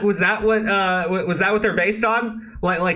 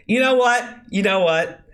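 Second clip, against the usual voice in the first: usual speaking voice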